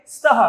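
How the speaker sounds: स्तः starting straight on "st", ending "ha"; correct visarga pronunciation. Shown as a demonstration. Teacher answering how to pronounce it, स्तः as "staha". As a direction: say स्तः as "sta-ha", no vowel before s. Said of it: "इसका उच्चारण क्या करेंगे?".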